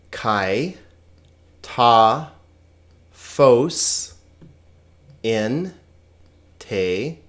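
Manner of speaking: single Greek words with long pauses; slow, separated pronunciation. Shown as a demonstration. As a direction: model each short word separately. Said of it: "on to the pronunciation".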